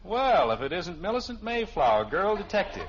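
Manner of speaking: mock-grand teasing announcement. Real, not acted. Father teasing his eavesdropping daughter, mock-grand. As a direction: announce her like a radio heroine.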